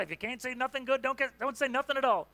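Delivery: put-on light southern accent on mum's saying. Pastor quoting his mum in a mild southern accent. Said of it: "I don't know why she spoke in a southern accent".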